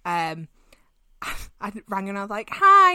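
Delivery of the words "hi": sing-song hi. Retold or imitated. Calling girlfriend with news.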